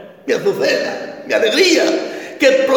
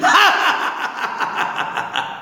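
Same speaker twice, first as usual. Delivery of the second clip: bitter clown laugh; 9 semitones higher than usual. Acted. Clown can no longer laugh.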